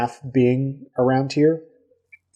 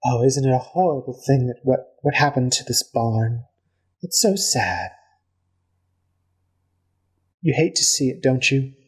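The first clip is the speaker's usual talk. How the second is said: lightly voiced sweet elf lady; a touch of fake sympathy, sing-song; mournful lady, lightly put on; elf woman.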